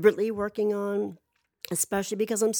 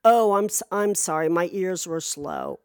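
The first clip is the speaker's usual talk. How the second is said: polite apology; 4 dB louder than usual. Pretend. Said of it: "the polite thing to say was".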